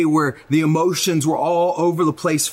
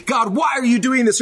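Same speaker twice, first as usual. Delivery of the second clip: mock angry plea; 7 semitones higher than usual. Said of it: "friends that are probably angry today".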